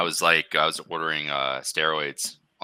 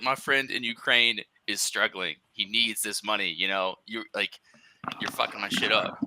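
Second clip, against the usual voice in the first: higher, slowish, half-joking indignant plea; mild mock pleading; 5 semitones higher than usual. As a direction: play up the wronged customer lightly. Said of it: "I got so upset".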